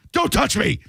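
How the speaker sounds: very high-pitched mock yell; hammed-up, high recoiling cry; mock outraged cry. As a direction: shriek it in pretend alarm at a touch. Mimics startled recoil from touch.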